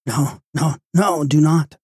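high-pitched, urgent protest; lady's pleading cry. A narrator's reading. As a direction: plead with them to stop, voice lifted. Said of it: "cried the lady".

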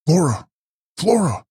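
high, urgent name call; crying out. A narrator's reading. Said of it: "he cried".

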